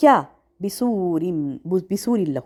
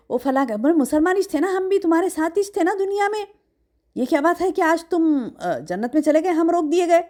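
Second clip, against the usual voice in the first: raised, protesting plea of the shut-out; pleading hypocrites; 4 semitones higher than usual. Retold or imitated. Hypocrites calling to the believers over the wall, a mild pleading cry. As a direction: cry out that you were with them too. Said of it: "پکار پکار کر کہیں گے".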